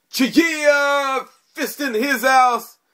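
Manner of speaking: very high, loud, slow hype-man yell, hollered out.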